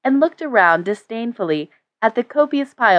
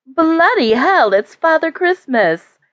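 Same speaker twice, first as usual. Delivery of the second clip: put-on cheeky young woman; 8 semitones higher, slower than usual. A narrator's reading. Granddaughter teasing her grandfather.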